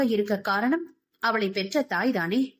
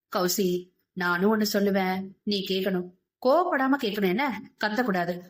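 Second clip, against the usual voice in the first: coaxing tender voice; 2 semitones lower than usual. Acted. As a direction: ease her into listening, tenderly. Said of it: "குழைவான குரலில்". (குழைவான மென்மையான குரல்)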